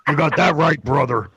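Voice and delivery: tough-guy impression. Low tough-guy reply.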